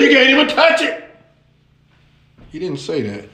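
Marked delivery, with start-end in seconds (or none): 0.0-1.0 exaggerated emphatic claim; a hint of overdoing it; mild Eve voice. Eve adding to God's command, mildly emphatic. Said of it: "So she said".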